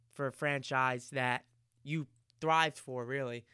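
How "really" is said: usual speaking voice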